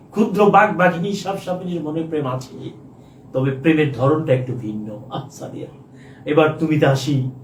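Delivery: lovelorn verse with breathy sighs between stanzas; dramatic poem recitation. Pretend. Teacher recites a love poem to Sadia on request, theatrical declamation.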